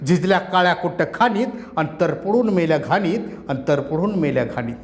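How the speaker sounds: impassioned protest poem, rising and falling; poem recitation. Acted. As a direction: declaim it like a rally poet. Poet recites his poem.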